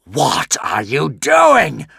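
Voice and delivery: slow, loud, high dragon roar. A narrator's reading. The dragon to Hiccup as the jewel falls, roaring. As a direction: bellow in baffled rage. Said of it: "roared the dragon".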